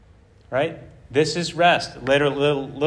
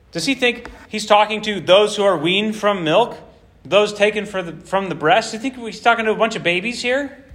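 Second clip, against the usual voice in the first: haughty; 4 semitones higher than usual. Acted. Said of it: "some haughty, haughtiness here".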